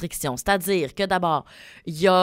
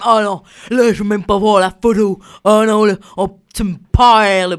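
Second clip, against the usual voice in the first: put-on loud baby-voice whining; cutesy baby talk; 3 semitones higher, 10 dB louder than usual. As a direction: coo it like talking to a baby lamb. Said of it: "j'ai pris une voix de bébé".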